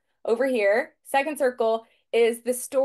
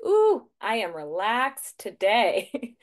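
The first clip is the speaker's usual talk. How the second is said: contented sigh; slower than usual. Retold or imitated. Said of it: "I'd be like".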